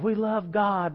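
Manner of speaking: high mock rallying cry; imitating a stadium speaker; hyped rally call. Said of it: "and making a racket".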